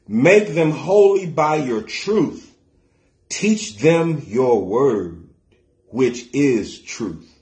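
very slow, deliberate verse reading; scripture reading. Real, not acted. Preacher reads New Living Translation to church, slow solemn reading. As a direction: measure out each phrase of the verse.

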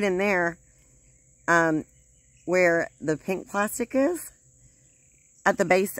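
speaking with teeth clenched; finger pulling lip down. Real, not acted. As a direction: lip held open by finger. Seen 0: fingertip pulls lower lip down, baring gum, teeth clenched.

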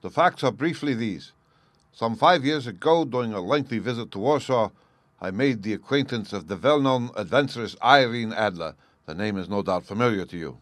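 a hint of regal storytelling; king stating his case. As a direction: lay out the facts with stiff dignity.

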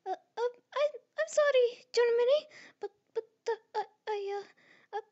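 put-on high, flustered Italian-accented voice, stammering; Italy with Italian accent. Fan does Italy fretting to Germany in an Italian accent. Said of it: "I'm going to try and do Italy's speaking style with the accent".

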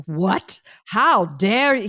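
hammed-up offence at being called old; mock outrage. Joking outrage at the doctor calling her middle-aged. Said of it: "And I got very offended".

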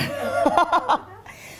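high burst of laughter. Real, not acted. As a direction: laugh at your own remark. Laughing at her own remark.

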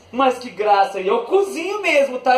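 ordinary talk, nothing marked

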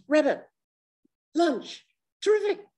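high, gleeful hungry weasel; greedy weasel. Acted. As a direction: pounce on the rabbit with relish. Weasel voiced in fable.

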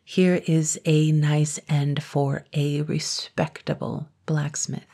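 slow, every word spelled out clearly; deliberate careful enunciation; very distinctly. Acted. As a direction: say it slowly so he can't miss a word. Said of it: "very distinctly".

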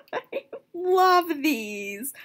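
breathy giggling whisper; laughing whisper. Real, not acted. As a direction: giggle it under your breath.

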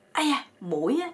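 lightly acted outcry; mild mock yelp. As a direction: imitate someone yelping at mosquitoes. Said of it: "tự nhiên anh la lên".

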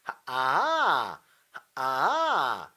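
slow 하, 아 pulled up a few notes; pulled pitch. Shown as a demonstration. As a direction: pull the pitch up a little. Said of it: "당겨".

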